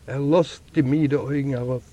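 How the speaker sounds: plain reading voice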